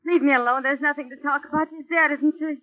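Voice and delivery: agitated outburst. Acted. Frightened woman pushing detective away.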